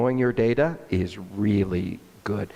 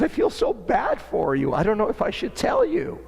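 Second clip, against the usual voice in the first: imitating the marketing lady; 10 semitones higher than usual. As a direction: play the sympathetic ex-employee in a higher voice.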